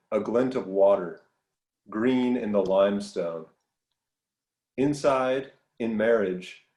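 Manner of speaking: measured poetry reading with long pauses between lines; poem reading. Acted. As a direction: recite a poem, unhurried. Reads a poem aloud.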